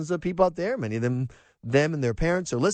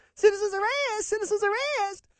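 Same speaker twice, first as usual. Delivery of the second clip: very high tenor voice, pushed way up. Describing a usual high tenor voice, imitating Gomer Pyle. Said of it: "Gomer Pyle".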